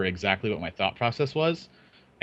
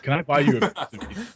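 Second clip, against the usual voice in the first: higher, broken accent impression; attempted Finnish accent; 5 semitones higher than usual. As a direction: try a botched Finnish accent. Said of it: "we're getting impressions here".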